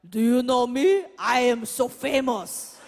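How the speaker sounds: loud, showy mock diva mother; imitating mom. Mom in the lobby, hamming up self-importance. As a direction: act the famous mom fishing for fans.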